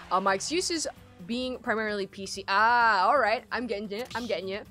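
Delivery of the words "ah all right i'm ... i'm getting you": normal talking voice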